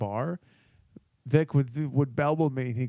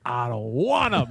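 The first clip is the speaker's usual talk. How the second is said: drawn-out mock refusal; slow, stretched retold outburst; losing it; 2 semitones lower, slower than usual. Imitating a man refusing the waitress's other wines, losing it. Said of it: "And he loses it".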